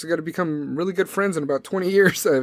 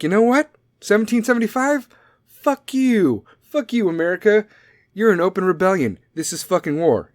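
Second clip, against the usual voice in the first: higher-pitched mock declaration of war; hammed-up indignant defiance, pitched up; 4 semitones higher, 3 dB louder than usual. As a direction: act out a country picking a fight. Acted England declaring war.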